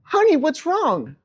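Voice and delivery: kind teacher. Retold or imitated. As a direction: soothe a crying child like a teacher. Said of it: "Missus Joffrey turns to me and she says".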